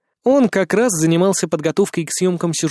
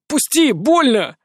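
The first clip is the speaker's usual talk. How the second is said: higher, slow, yelping; changed, pained voice; 7 semitones higher, slower than usual. A narrator's reading. Disguised Dima begs to be let go, pained. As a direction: drop the act, plead in pain. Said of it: "сказал изменившимся голосом".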